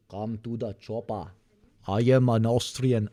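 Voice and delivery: put-on feeling out an Austrian accent. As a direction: lightly try an Austrian accent. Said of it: "Austrian, please".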